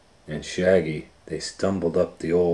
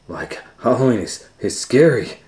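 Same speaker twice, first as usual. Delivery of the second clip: a light Shaggy, higher and louder; lightly voiced scared Shaggy; 5 semitones higher, 6 dB louder than usual. Shaggy tells Scooby Halloween is scary, lightly voiced. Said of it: "Shaggy said".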